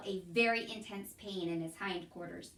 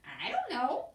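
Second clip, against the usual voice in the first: a hint of dim Mig; 5 semitones higher, 6 dB louder than usual. A narrator's reading. Mig's confused answer.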